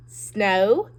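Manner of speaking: "Snowball" said as "Snow"... "ball"; split into two parts. Shown as a demonstration. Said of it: "break the word apart".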